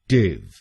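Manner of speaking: टिव as a short "tiv" with hard t; syllable demo. Shown as a demonstration. Teacher shows the last syllable टिव. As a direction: end crisply on टिव. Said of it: "बोलेंगे टिव".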